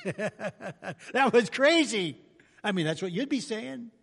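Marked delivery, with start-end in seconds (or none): 0.0-2.2 laughing amazement. Retold or imitated. Laughing at the miracle.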